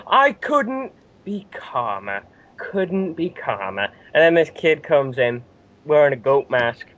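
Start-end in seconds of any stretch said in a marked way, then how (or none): 0.1-3.9 high, slow, forced calm; strained fake calm, words stretched out; fuming wrestler insisting he's calm, slow; Daniel Bryan. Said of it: "Daniel Bryan's saying".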